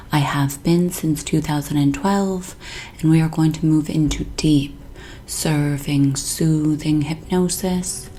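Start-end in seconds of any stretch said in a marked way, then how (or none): 3.0-8.1 slow, soothing hypnotist voice; hypnotic session intro. Acted. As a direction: draw out each word, lulling toward sleep.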